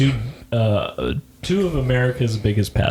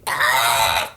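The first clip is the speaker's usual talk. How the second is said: duck voice. Retold or imitated. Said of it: "Do you hear my Donald Duck impression?".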